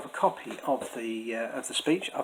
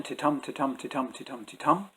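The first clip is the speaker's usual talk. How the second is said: ti-tum said with the weight on tum each time; rhythmic ti-TUM chant; iambic beat. Shown as a demonstration. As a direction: tap out ti-tum, light then heavy. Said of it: "ten beats in a line".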